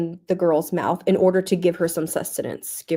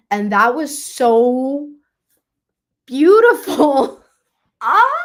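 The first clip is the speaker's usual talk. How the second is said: getting emotional; 5 semitones higher, 7 dB louder, slower than usual. Real, not acted. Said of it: "I'm getting emotional".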